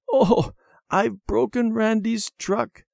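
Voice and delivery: high, slow tearful wail; sobbing. A narrator's reading. Debbie finding she broke her brother's truck, acted sob. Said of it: "Debbie said with a sob".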